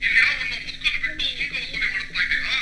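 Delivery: fast, angry tirade; rapid, heated complaint; indignant protest. Acted. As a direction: rattle off accusations and a threat. Angry protest over toll collection.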